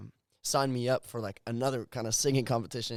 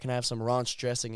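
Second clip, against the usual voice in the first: RANCH with a broad ah, "rahnch"; South African vowel on ranch, like "raunch"; mom's South African accent. Retold or imitated. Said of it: "my mom be like".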